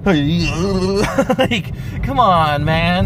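loud, high frustrated rant; road rage. Real, not acted. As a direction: yell at the other driver. Ranting at bad drivers.

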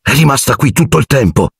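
high, delighted cry; thrilled to find the car again; delighted exclamation. A narrator's reading. Ron circling the found car with Harry, high delighted cry. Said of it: "esclamò Ron deliziato".

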